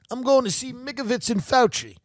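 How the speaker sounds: a hammed-up gushing fan raving about a comedy act; theatergoer raving. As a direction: squeal like a delighted audience member. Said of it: "vaudevillian comedy duo".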